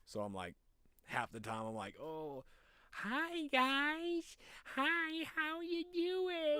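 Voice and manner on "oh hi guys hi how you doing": very high, loud falsetto greeting; put-on friendly voice. Streamer greeting people so they understand, absurd high put-on voice. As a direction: squeal it like an exaggerated cheery greeter. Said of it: "to not understand what the fuck I'm saying when I talk normal".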